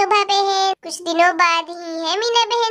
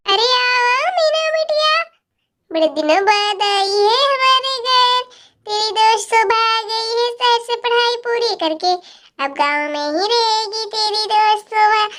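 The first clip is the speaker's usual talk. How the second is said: lightly voiced elder greeting a visitor; welcoming village elder; 2 semitones higher than usual. Voices a character welcoming Meena.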